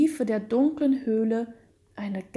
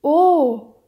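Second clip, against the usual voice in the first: loud, high anguished "oh"; heart-piercing cry; 5 semitones higher, 10 dB louder than usual. A narrator's reading. Count believing he sees his wife's ghost, heart-piercing cry. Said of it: "rief er mit herzdurchdringender Stimme".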